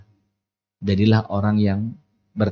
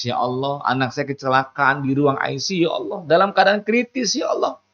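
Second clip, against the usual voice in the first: climbing higher and higher into a pleading cry; desperate prayer; 5 semitones higher than usual. Acted. Parent praying for a child in intensive care, rising plea. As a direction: beg God, voice rising to a wail.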